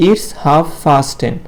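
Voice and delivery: very slow, word by word it's half past ten; teacher drilling it's half past ten slowly for the class; slow model phrase. Shown as a demonstration. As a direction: spell it out for young pupils. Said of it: "উচ্চারণটা সবার শেষে বলবো".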